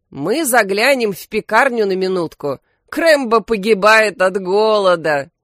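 usual speaking voice

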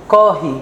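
قاهي with a long, open first vowel. Shown as a demonstration. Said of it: "اه، قاهي".

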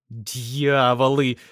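slow, despairing groan of a word; a touch of anguish; wearily. A narrator's reading. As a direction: drag it out in misery. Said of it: "тоскливо сказал Николай".

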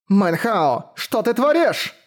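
shocked cry, jumping high on the question; alarmed exclamation. Acted. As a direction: call out in alarm and disbelief. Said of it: "воскликнула Фань Дун Эр".

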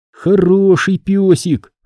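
slow, tender praise for the dog. A narrator's reading. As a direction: coo it slowly to the dog. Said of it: "ласково произнёс я".

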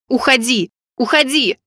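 driving him out. A narrator's reading. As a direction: throw him out with it. Pushing the man out.

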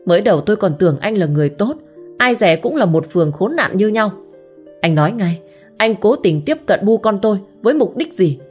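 rising furious outburst, ending in a shout; angry accusation. Acted. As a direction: tear into him, building to a yell. Hến furiously confronts the man. (giận dữ quát tháo, càng lúc càng to)

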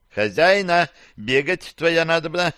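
high, scared little creature squeak; frightened cockroach voice. Acted. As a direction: panicky tiny critter voice. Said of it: "прозвучал в голове испуганный голос таракана".

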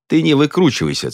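sharp high snap of a rebuke; hissed rebuke. A narrator's reading. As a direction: cut him off with a scolding. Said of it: "цыкнул сосиска". (резкий цыкающий окрик)

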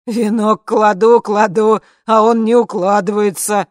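slow, loud, high strained yelling; exasperated shout. Acted. Guard on screen complaining about the crown, loud and exasperated. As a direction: yell it out, frustrated.

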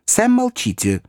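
high sharp command; sharp hush. A narrator's reading. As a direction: cut Sam off quickly. Pickwick hushes his servant.

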